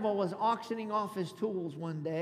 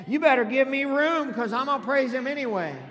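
loud, raised, emphatic declaration; like you mean it; 4 semitones higher, 8 dB louder than usual. Shown as a demonstration. Pastor urging congregation to mean it, loud emphatic declaration. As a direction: hit it high and hard with conviction. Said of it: "You need to say it like you mean it".

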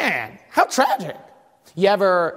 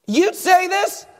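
smug Saul; 5 semitones higher, 5 dB louder than usual. Retold or imitated. Pastor mocking Saul's boast to Samuel, smug. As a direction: ham up Saul boasting of obedience. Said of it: "and Saul said unto him".

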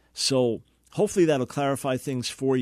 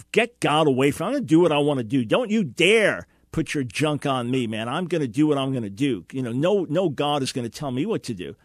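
louder, mock-defiant brush-off; defiant sinner; 4 dB louder than usual. Defiant sinner mocking the preacher's message, louder and scornful. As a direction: act out a scornful rebel waving God away. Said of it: "to a defiant sinner".

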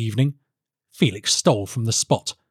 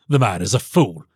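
dismissive king; 3 semitones lower than usual. Acted. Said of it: "said the king".

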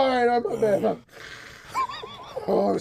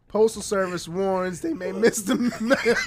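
laughing read. Real, not acted. Reading headline, cracking up.

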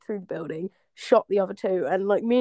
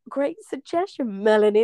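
imitating host; 2 semitones higher, 3 dB louder than usual. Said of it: "she's like".

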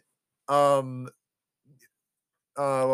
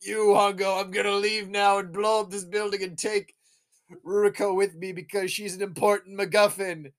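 villain announcement; 4 semitones higher than usual. Retold or imitated. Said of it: "He's like".

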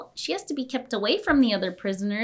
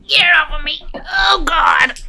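loud cry; 6 semitones higher, 6 dB louder than usual. Real, not acted. Dog climbing on her.

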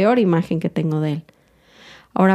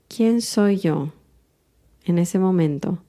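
slow, unhurried question, weight on quién; slow reflective question; slower than usual. Shown as a demonstration. Host slowly asks listeners the healing question, unhurried. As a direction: let "¿Quién soy yo" hang, slow and calm. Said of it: "una pregunta que siempre les hago".

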